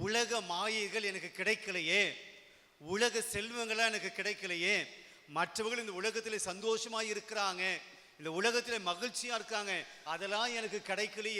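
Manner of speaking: high-pitched complaining lament; envious lament. Acted. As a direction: pitch it up like someone feeling left out. Voicing an envious person's lament. (ஏக்கத்துடன் உயர்ந்த குரலில் புலம்பல்)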